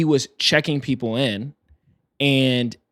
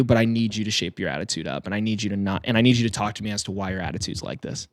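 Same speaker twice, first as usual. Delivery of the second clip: lower, restrained voice of authority; retold stern manager; 4 semitones lower, 4 dB quieter than usual. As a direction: imitate a manager calmly laying down a warning. Acted manager confronting rude airline employee.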